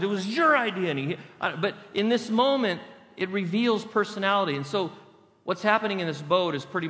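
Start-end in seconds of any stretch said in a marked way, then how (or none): 0.0-0.9 mock blaming. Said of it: "smacked another one with the oar".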